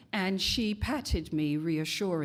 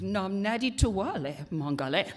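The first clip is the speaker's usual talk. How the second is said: made-up language. Retold or imitated. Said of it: "And I repeated".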